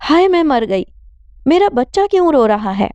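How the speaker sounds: high, panicked mother's cry; alarmed wail. Acted. Mother hearing her son cry, panicked and high. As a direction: gasp it out in fright for her child. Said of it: "اماں کے حواس باختہ ہو گئے".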